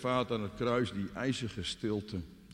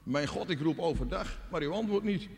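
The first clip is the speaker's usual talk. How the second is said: mild anguished calling, climbing in pitch; suffering cry; 4 semitones higher than usual. Acted. David suffers and calls to God, mildly anguished. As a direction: call out to God, ending high. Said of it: "En David lijdt en schreeuwt en roept tot God".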